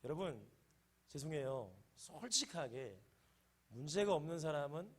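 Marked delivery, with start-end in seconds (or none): none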